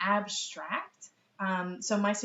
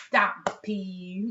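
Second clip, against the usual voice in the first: put-on toddler saying stop please; 6 dB louder than usual. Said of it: "So she'd go".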